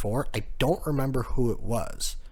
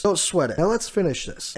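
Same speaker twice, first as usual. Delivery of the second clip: confident hype; 6 semitones higher than usual. Retold or imitated. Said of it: "He goes".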